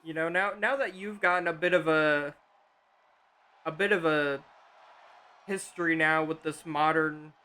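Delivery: glitchy robotic audio over bad connection. Real, not acted. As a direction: sounds like a broken digital robot. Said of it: "You sound like a robot".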